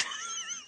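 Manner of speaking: short, soft, high-pitched laugh; light real chuckle after a warning. Real, not acted. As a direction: laugh softly at your own remark.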